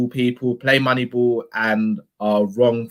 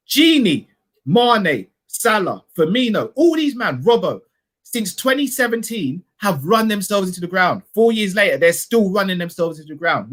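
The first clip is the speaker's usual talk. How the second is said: rising, insistent rant with names fired off; heated rant; 5 semitones higher than usual. Real, not acted. Fan ranting on stream about tired players, heated. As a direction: hammer each name like a list of victims.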